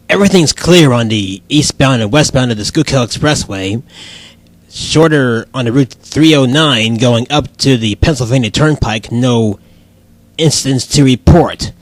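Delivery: low-pitched traffic bulletin read; radio traffic report. Pretend. Traffic reporter to the host, radio traffic report. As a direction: report the roads low and matter-of-fact.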